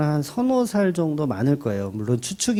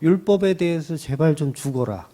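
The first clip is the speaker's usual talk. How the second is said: put-on raised, exasperated rebuke of an older brother; voicing Paul tearing into Peter, heated dramatic scolding; 3 semitones higher than usual. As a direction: scold him like a fed-up younger colleague, pitch up. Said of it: "작살나게 막 욕을 하는 거예요".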